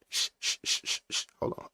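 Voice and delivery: whispered shushing. Retold or imitated. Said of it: "They say".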